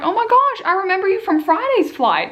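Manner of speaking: high, excited oh my gosh; mock excited girl; excited recognition. Girl beside him recognizing her, excited.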